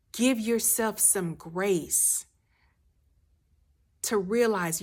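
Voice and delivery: calm, tender reassurance to a hurting listener; gentle reassurance. Acted. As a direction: ease the listener into permission to rest. Soft reassuring counsel to listener.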